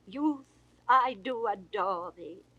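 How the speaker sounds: ordinary delivery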